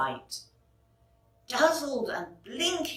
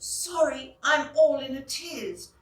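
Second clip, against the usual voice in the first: flustered fairy; 5 semitones higher than usual. Acted.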